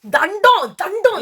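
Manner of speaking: high, exasperated exclamation; high-pitched verdict of disgust; exasperated dismissal. Real, not acted. Dismissing a contestant as useless.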